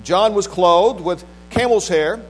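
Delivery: measured, solemn Bible reading from the pulpit; scripture reading. Acted. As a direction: read scripture out with weighty pauses between phrases. Reads scripture aloud to congregation.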